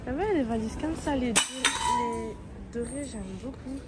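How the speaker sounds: muffled behind a face mask; through a face mask. Real, not acted. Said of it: "J'espère que vous m'entendez avec mon masque".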